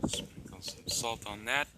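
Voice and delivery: soft breathy whisper to himself; whispered aside while cooking. Real, not acted. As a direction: murmur it under your breath.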